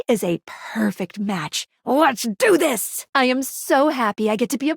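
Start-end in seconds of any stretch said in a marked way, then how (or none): 1.8-3.1 drawn-out, hyped-up cheer; rallying cry. Acted. Game character kicking off the realization, drawn-out hype. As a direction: stretch it into a slow rallying cry. Acted battle cry before ritual.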